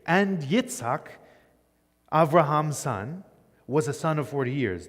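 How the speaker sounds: Yitzhak said slowly, each word placed with care; slow deliberate reading of the literal text. Shown as a demonstration. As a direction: read it slowly and deliberately, as a literal Hebrew rendering. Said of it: "this is a very awkward Hebrew phrase".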